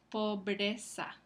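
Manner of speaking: "pobreza" spoken slowly as po-bre-za; "pobreza" drawn out slowly with br kept together; slow syllabified. Shown as a demonstration. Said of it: "la B y la R son dos consonantes".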